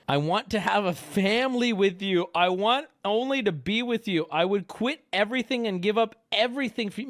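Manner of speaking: hammed-up devotion. Streamer reads a man's texts begging to be with her, hammed-up devotion. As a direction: overdo the lovesick begging. Hammy reading of love texts.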